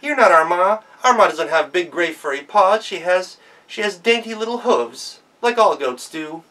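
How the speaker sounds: put-on loud, bold child voice; defiant sister. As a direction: send the wolf off defiantly. Sister exposes the wolf.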